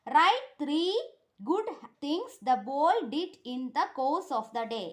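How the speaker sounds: very slow, word by word for pupils; teacher dictating to a class; slow dictation. Shown as a demonstration. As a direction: spell the answer out slowly so they can write. Teacher reads question slowly.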